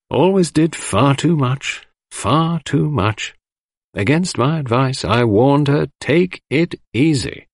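lightly voiced fussy doctor, drawn out; a fussy doctor fretting over his patient; fussy little doctor. A narrator's reading. Fussy doctor lamenting to the household, a hint of fuss.

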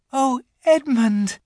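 put-on high, loud girlish cry. A narrator's reading. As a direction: call his name in a rush of feeling, drawn out. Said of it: "she cried".

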